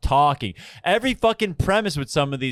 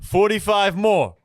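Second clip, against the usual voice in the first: slow, higher disbelieving whine; old heckler groaning at how long the show runs, in a slow incredulous whine; incredulous old man; 6 semitones higher, slower than usual. Retold or imitated. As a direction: drag it out like a fed-up old guy. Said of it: "He's like".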